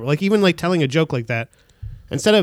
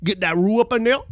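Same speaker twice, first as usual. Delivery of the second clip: Japanese Creole chef. Pretend. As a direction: rattle off a recipe in playful Creole. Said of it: "a Japanese Creole chef".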